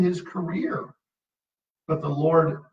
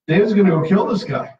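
mock rash fury; 5 semitones higher, 6 dB louder, faster than usual. Preacher voicing David's rash intent.

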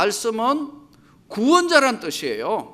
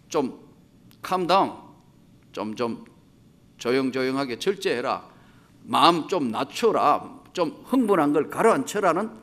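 calming hush; 6 semitones lower than usual. Acted. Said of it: "너무 흥분하고 너무 소리 지르니까".

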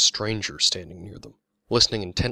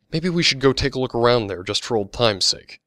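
lightly acted sudden idea, higher and louder; sudden suggestion; 4 semitones higher, 7 dB louder than usual. A narrator's reading. Adriana suggesting a last look around, sudden. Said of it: "Adriana said suddenly".

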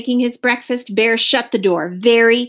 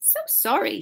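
soft little apology; hushed, apologetic mouse; meek apology; 8 dB quieter than usual. A narrator's reading. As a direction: say sorry gently and small. Mouse apologizes to weeping bear.

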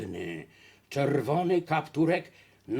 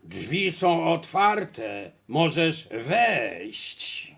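very slow, drawn-out wolf; unpleasant wolf voice; 4 dB louder, much slower than usual. Acted. Disguised wolf inviting the girl inside, slow unpleasant voice. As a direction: stretch every word unpleasantly. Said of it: "rozległ się nieprzyjemny głos".

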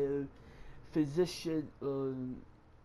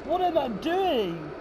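high, raised panicked voice; panicked outcry; 4 semitones higher, 4 dB louder than usual. Real, not acted. Player fumbling to back up, panicked outcry. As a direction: cry out in alarm.

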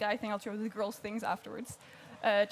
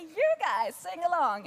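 rock star call; 4 semitones higher, 4 dB louder, slower than usual. Retold or imitated. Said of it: "they go to the other end and say".

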